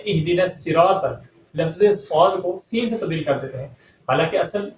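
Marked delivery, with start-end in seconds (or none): 0.0-1.0 الصراط with a light sin instead of saad; الصراط mispronounced with sin; wrong, sin for saad. Retold or imitated. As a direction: say الصراط as sirat with a thin s. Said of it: "کس طریقے سے پڑھتے ہیں".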